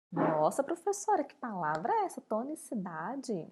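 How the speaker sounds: imitando um aluno admirado com a palavra; reação encenada de espanto, tom oscilando; aluno espantado. Acted. Professora imita aluno surpreso. (aluno surpreso e confuso, encenado)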